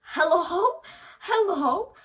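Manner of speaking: very high, loud rising hello; mock him, as if knocking on an empty head; teasing someone who pretends to forget; sarcastic hello. Mocking his amnesia.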